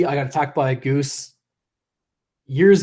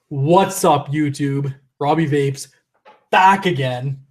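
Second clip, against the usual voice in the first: punchy YouTube greeting; channel intro; slower than usual. Shown as a demonstration. Vlogger redoing his intro for latecomers, punchy channel greeting. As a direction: hit each phrase of the catchphrase separately. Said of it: "For anyone who missed my intro".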